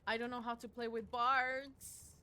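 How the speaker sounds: loud, slow complaint; exasperated. Real, not acted. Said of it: "repeats line quieter".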